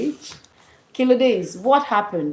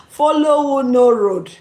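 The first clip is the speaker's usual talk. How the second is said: higher catchphrase exclamation; slang called out; 4 semitones higher, 4 dB louder than usual. Shown as a demonstration. Repeating the slang for Martins, high playful exclamation. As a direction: toss it out high after a laugh.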